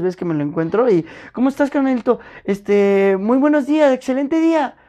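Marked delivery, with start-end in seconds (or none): 1.3-4.8 much higher and bright, a friendly booth attendant's greeting; imitating the upbeat toll-booth guy greeting drivers, pitched high; cheery attendant. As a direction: greet like the happiest worker on the night shift. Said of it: "Mis respetos para él".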